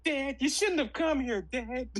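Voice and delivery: high, hammed-up American accent mocking an actor. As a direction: lampoon an Aussie actor's bad American accent. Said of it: "His American accent".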